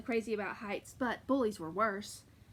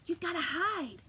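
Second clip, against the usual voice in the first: high, hurried giantess voice; urgent giantess; 6 semitones higher than usual. Acted. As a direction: hurry him into hiding. Giantess urges Jack.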